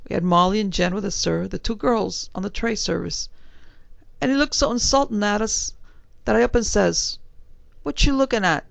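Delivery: a hint of a respectful London bellboy; young servant answering his gentleman in a light Cockney. Thomas tells the fight.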